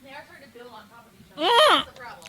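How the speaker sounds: tearful from the heat; crying. Real, not acted. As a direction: talk through real tears. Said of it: "you are crying".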